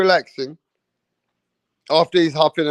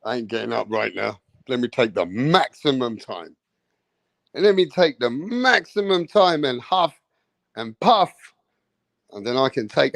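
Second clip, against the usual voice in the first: lazy Usyk; 4 semitones lower than usual. Retold or imitated. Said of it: "He's like".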